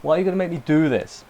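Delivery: a pained "oh for God's sake" that turns into a fast plea; half-joking despair at the show; exasperated anguish. Retold or imitated. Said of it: "at that point I was like".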